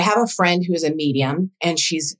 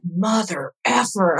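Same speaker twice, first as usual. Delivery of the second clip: slow, drawn-out mock curse; retold anger; slower than usual. Woman reacting to friend naming her mom, contained anger. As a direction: draw out each word in retold outrage. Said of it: "I was so mad".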